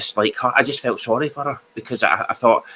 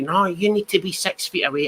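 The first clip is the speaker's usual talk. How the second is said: put-on annoyed woman screaming, angry and high-pitched; 8 semitones higher than usual. Retelling a stranger's complaint in a shop: imitating a woman screaming. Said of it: "she started screaming at me".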